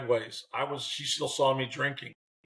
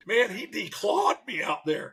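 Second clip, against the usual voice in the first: slow, higher-pitched comic disbelief; mock-wounded complaint; 5 semitones higher, slower than usual. Beaten manager reporting back to Bannister, mock-wounded. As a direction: drag out the grievance in a lifted voice. Retelling his deflated complaint to colleague.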